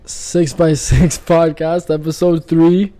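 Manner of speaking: slow, laughing nervously through the intro. Real, not acted. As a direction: stumble into a giggle on the show name. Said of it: "I'm still nervous".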